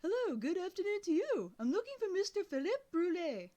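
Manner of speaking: put-on boy phoning a stranger, loud and polite; loud on the phone. A narrator's reading. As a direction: project down the line politely. Calling a deaf old man.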